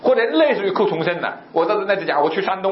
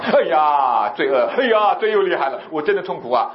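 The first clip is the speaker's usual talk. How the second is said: hammed-up lament over sin; mock anguish; 3 semitones lower than usual. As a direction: moan it like a pained penitent, lightly. Acting out grief over sin. (略带夸张的痛苦哀叹)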